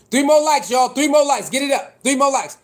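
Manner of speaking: rally the viewers to hit like; hyping chat. Real, not acted. Calling out to chat for likes.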